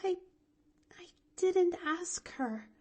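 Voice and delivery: put-on high, halting, miserable little girl; guilty child stammering. A narrator's reading. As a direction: stammer it out unhappily. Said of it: "stammered the little girl miserably".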